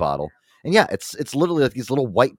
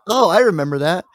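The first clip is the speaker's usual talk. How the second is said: higher, louder voicing of mom; 8 semitones higher, 4 dB louder than usual. Mom recalling an old remedy, imitated mom voice. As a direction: imitate mom piping up in recognition. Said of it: "My mom hears this. She's like".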